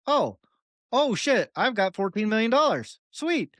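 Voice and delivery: high, giddy disbelief; mock excited. Professor finding his Bitcoin, giddy and high. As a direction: squeal it like you just got rich. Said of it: "and went".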